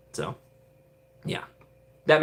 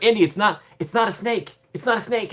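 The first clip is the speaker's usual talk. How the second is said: much higher, half-mocking insistence; pleading ride voice; 9 semitones higher than usual. Ride characters telling Indy it's not a snake, high and mock panicked. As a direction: squeak it out like a flustered guide. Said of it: "They're like".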